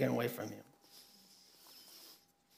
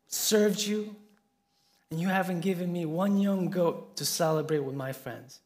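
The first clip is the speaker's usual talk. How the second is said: higher and louder, slowing on the accusation; retold furious protest, raised and pressing; angry older brother; 4 semitones higher, 4 dB louder than usual. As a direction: hurl the complaint at the father. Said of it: "so angry, he says".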